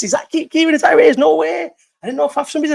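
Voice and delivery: high, excited disbelief; can't believe who just joined; surprised. Real, not acted. Surprised Kieran is on the call.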